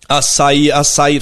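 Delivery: loud sing-song açaí cry; singsong beach vendor call. Acted. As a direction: hawk açaí to the beach crowd. Beach vendors voiced in poem. (pregão cantado de vendedor de praia)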